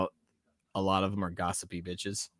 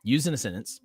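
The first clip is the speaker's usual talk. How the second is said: whisper; 3 semitones higher, faster than usual. Real, not acted. Whispered aside to self.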